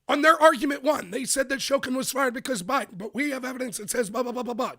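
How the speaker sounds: loud, quick debate rebuttal voice. Shown as a demonstration. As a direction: fire back point by point. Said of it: "we called that the line by line".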